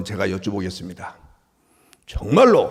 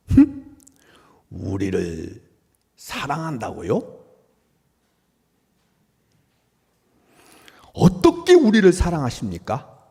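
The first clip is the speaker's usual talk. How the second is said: protesting; 2 semitones higher, slower than usual. Acted. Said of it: "이렇게 항의하고 있습니다".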